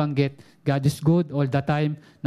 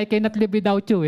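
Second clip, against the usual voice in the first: a hint of his wife pleading; imitating his wife; 6 semitones higher than usual. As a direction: lightly play the wife's plea. Retelling wife's tearful plea.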